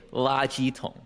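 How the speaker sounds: "la ji tong" in mainland Chinese Mandarin. Shown as a demonstration. Contrasting with Taiwan's word for trash can, mainland Mandarin. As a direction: say "la ji tong" as they do in China. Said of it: "But then in China, they say".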